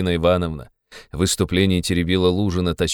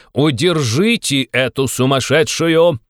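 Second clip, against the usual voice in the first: slow, louder, commanding yell; a slowed, louder furious shout, higher; angry shout; 6 semitones higher, 4 dB louder, slower than usual. A narrator's reading. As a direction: bark the order to restrain her. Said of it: "закричал он".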